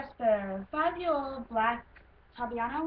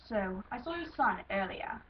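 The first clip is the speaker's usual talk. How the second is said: lightly put-on British accent; Luke. Stallion mentioning someone's son, light British accent. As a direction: audition read with a hint of British. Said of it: "Luke I'm gonna do in a British accent".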